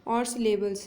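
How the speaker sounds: very slow, word by word; slow dictation. Shown as a demonstration. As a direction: dictate the definition slowly. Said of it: "कोएसोनेंस होता क्या है?".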